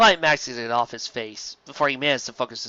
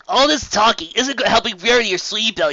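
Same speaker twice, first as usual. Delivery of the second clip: impatient; 8 semitones higher, 6 dB louder than usual. Acted. Rainbow Dash impatient.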